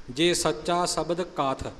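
ਕਥ standing alone, no a before it; correct reading. Shown as a demonstration. Teacher modelling the true line, ਕਥ without a leading a. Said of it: "ਅਕਥ ਨਹੀਂ ਕਹਿਣਾ".

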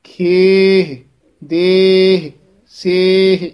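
ਖੇਹ ਦੇਹ ਸੇਹ loud and clear, long e, no ending vowel; ਖੇਹ ਦੇਹ ਸੇਹ pronounced clearly; correct pronunciation. Shown as a demonstration. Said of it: "ਇਹ ਉਚਾਰਨ ਹੈ".

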